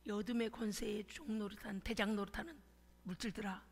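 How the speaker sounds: low, firm command that bursts into a loud shout at the end; low authoritative decree ending in a shout; commanding prayer. Retold or imitated. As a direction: order the wealth to come like an exorcist. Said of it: "이렇게 기도했어요".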